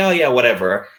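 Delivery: plain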